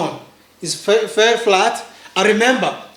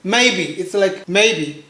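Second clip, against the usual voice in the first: slow maybe; slower than usual. Shown as a demonstration. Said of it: "Maybe is really like the first tone".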